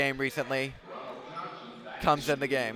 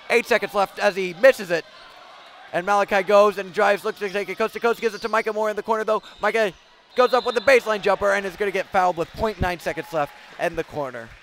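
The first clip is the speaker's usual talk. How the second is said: high, fast, urgent call; excited buzzer call; 5 semitones higher, 5 dB louder than usual. Real, not acted. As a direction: race the clock with the play. End-of-quarter scramble call.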